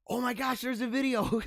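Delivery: high, delighted oh my gosh; light up at the find; thrilled discovery. Real, not acted. Host finds a video from the school mass, high and delighted.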